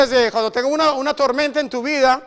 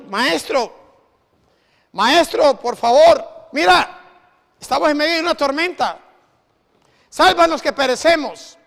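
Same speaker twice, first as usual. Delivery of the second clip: urgent plea; 2 semitones higher than usual. Acted. Disciples waking Jesus in storm.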